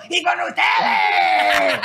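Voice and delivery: very low, slow mock announcer shout; clown announcer voice. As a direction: ham up a deep clown emcee. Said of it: "la pinche voz que tienes así como de payasito".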